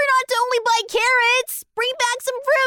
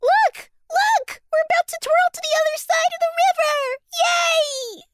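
much higher, fast excited cry; thrilled; 7 semitones higher than usual. Acted. Fox twirling across the river, thrilled shout. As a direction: burst out in joy.

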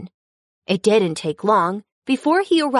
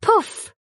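high, bursting poof; playful poof; 11 semitones higher than usual. Acted. Narrator voicing elephant spraying water, high playful poof.

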